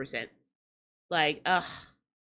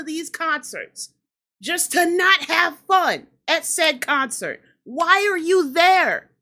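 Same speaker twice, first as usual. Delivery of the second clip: starting to crash out. Real, not acted. Vlogger to concertgoers who won't have fun, fed up. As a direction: drag it out, getting fed up. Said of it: "I gotta crash out".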